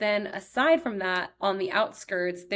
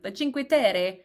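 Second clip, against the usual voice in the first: Italian pronunciation. Retold or imitated. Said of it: "if I'm like".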